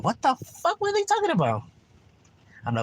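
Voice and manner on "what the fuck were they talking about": a much higher, put-on baffled voice; imitating a confused homie. Friend asking what the video meant, high mock confusion. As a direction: squeak it out as the clueless friend.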